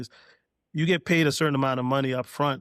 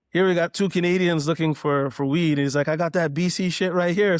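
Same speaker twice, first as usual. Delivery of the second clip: louder, amused retelling of Nas laughing; mild laughing imitation of the rapper; 4 semitones higher, 5 dB louder than usual. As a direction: chuckle it out, tickled and loud. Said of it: "and then he starts laughing".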